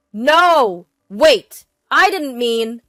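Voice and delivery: loud, high, urgent cries; desperate husband scrambling to explain; panicked protest. Acted. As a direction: cry out to stop her. Husband protests as marriage ends.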